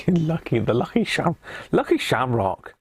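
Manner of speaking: failed attempt at an Irish accent. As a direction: put on a hammy Irish lilt. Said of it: "I mustn't try doing Irish accents".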